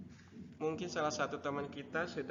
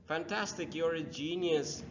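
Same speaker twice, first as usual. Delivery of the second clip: excited praise; 5 semitones higher, 3 dB louder than usual. Shown as a demonstration. Teacher models praise.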